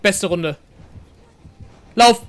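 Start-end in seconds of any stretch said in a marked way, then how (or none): 2.0-2.2 high loud victory yo; triumphant yo. Real, not acted. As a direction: shout it in triumph. Escaped, celebrating.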